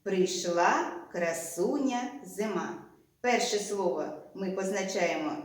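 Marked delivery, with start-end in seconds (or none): 0.0-2.8 «Прийшла красуня зима» slowed, word by word; teacher reading the sentence slowly for the schema; slow dictation. Shown as a demonstration. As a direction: dictate it slowly so children can count the words. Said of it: "І ось схема до цього речення".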